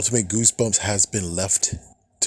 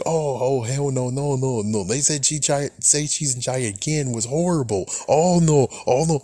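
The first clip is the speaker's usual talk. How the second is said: mock fan outrage; 4 semitones higher than usual. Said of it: "It's like".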